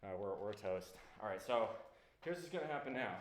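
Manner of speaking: winded after a workout; panting between words; out of breath. Real, not acted. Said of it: "take just a moment to catch my breath".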